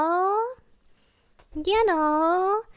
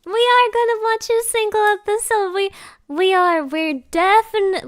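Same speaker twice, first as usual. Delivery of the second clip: raised, forceful promise; determined, higher-pitched protest; emphatic insistence; 4 semitones higher, 4 dB louder than usual. Real, not acted. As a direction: insist it, leaning on the verbs. Insisting to doubting chat.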